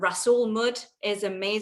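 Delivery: mud said with a northern English accent. Talking about using clays and muds, northern English accent. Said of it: "that's my northern accent came out there".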